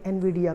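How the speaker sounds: Nvidia opening with "en"; common mispronunciation. Shown as a demonstration. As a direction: say Nvidia as "en-VID-ia". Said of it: "गलत pronounce करते हैं".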